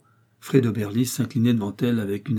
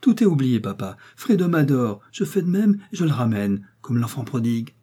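high, louder happy cry; joyful cry; 3 semitones higher, 4 dB louder than usual. Acted. Daughter bursting into the pharmacy, joyful cry. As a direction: call it out in real joy. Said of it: "en criant avec une joie sincère".

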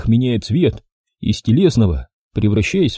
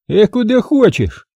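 cynical; 11 semitones higher than usual. A narrator's reading. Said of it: "цинично заявил кретин".

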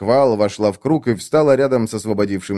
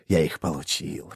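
quiet gloat; 6 semitones lower, 8 dB quieter than usual. A narrator's reading. Repeated gloat.

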